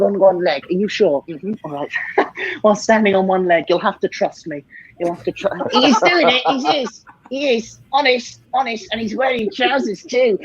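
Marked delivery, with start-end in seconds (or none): 5.7-10.4 high puppet voice insisting; cheeky dummy voice pleading honest. Pretend. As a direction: play the dummy swearing it's real. Ventriloquist dummy protests honesty.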